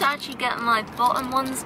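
speaking with lip held open. Real, not acted. Seen 0: Finger pulls lower lip down to show bottom braces while speaking.

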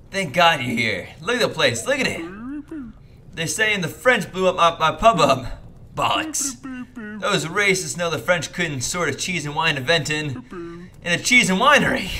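indignant British publican, ranting; a touch of an outraged British landlord; lightly voiced British pub owner.

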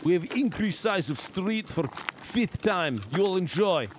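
slow, broken-English fake announcement; lightly voiced smug developer, slow and pleased; mock developer voice. Streamer parodying the game developers for chat, slow mock announcement.

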